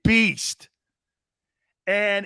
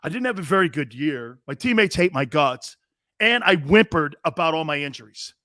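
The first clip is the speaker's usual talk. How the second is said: mock whiny quarterback; 3 semitones lower than usual. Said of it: "People with confidence don't go out there and go".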